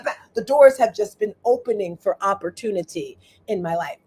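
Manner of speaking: normal talking voice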